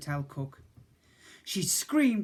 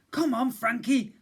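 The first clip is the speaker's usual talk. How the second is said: put-on breathless boy, pitched up; huffed line; 8 semitones higher, 5 dB louder than usual. A narrator's reading. Boy sprinting down the stairs, huffing. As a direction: huff it out mid-sprint. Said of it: "I huffed to myself".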